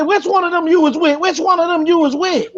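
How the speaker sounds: high pressing demand, voice lifted throughout; urgent question. Retold or imitated. Mother grilling the young man, high and urgent. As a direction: pin him down on who it was.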